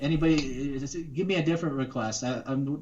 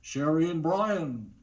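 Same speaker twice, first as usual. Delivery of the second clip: Don Pardo impression. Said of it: "it's Don Pardo".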